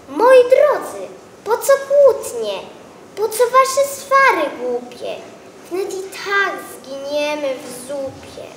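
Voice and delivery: a cabbage begging the squabblers to stop; pleading cabbage. Acted. Cabbage calls the quarrelling vegetables.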